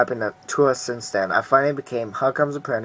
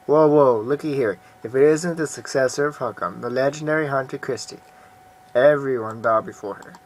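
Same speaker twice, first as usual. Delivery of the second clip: mocking. Mocking rival greets hunter.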